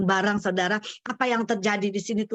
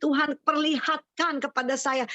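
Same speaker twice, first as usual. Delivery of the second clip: mildly elated, higher-pitched exclamation; a touch of delighted wonder, pitched up; retold joy; 5 semitones higher than usual. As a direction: recall rejoicing at God's presence. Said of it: "Wah, saya gembira".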